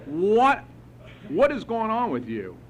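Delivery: high-pitched, exasperated imitation; incredulous demand. Sponsor confronting his upset sponsee in a meeting, incredulous. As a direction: act out a baffled, high-pitched question.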